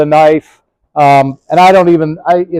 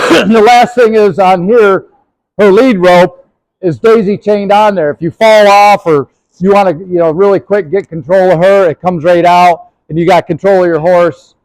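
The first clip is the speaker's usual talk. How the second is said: military voice; 3 semitones higher than usual. Real, not acted. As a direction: project it like a drill instructor. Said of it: "How about that military voice?".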